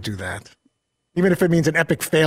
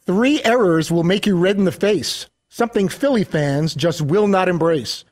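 bouncy limerick lilt. Acted. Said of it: "here's the speaker with his, uh, limerick".

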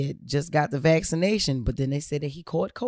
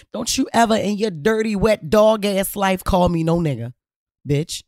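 raised, louder and higher, an insulted threat; angry retort; 4 semitones higher, 4 dB louder than usual. Retold or imitated. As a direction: tell her off, loud and cutting. Furious retold confrontation line.

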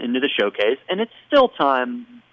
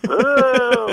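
high, long mock boo; put-on high crowd boo; imitating booing crowd; 10 semitones higher, 4 dB louder than usual. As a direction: jeer like a crowd turning on someone. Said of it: "And the crowd's like".

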